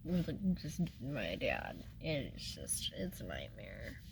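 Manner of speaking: quiet, choked-up tearful voice; barely holding back tears; real crying while talking about her dad. Real, not acted. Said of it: "I didn't expect to get on here and cry".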